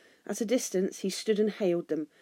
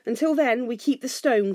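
raised, firm call; cried out; 5 semitones higher, 5 dB louder than usual. A narrator's reading. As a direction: call it up to the wall, loud and high. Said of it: "cried Bard".

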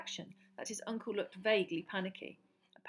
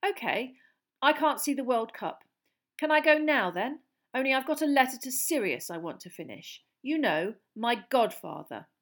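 steady; 4 semitones higher, 6 dB louder than usual. A narrator's reading. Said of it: "took a deep, steadying breath".

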